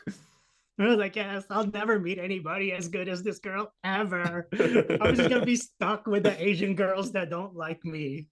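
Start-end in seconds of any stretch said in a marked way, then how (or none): 1.1-8.3 slow, higher whimpering self-pity; hammed-up sobbing self-pity; mock crying whine. Crying to his mentor on the phone, hammed-up whimpering. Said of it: "I started fucking crying".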